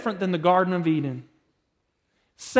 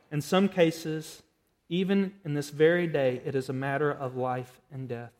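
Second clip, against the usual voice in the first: measured, subdued prayer, settling lower; closing prayer; 3 semitones lower, 3 dB quieter than usual. Real, not acted. Preacher prays to God after the sermon, subdued prayer. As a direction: lead the congregation quietly in prayer.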